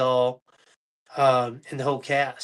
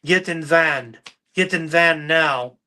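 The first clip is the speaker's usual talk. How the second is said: put-on Russian accent; 4 dB louder, slower than usual. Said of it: "This Russian guy goes".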